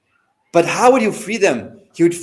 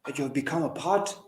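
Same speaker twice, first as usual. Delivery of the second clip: stern retold admonishment, measured phrases with weighty pauses; condemning; 2 semitones higher than usual. Imam condemns a scholar who hides the truth, stern. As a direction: reproach a scholar, swelling midway, then easing off. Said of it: "condemning his action".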